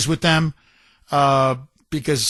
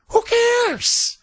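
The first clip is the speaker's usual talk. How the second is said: squeaky, much higher sarcastic who cares; mocking who cares. Real, not acted. Host scoffing at the governor's bond rating, high mocking falsetto. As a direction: toss it off in a shrill mocking falsetto.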